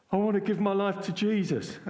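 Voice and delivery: quoting him while laughing. Real, not acted. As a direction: laugh through the quote.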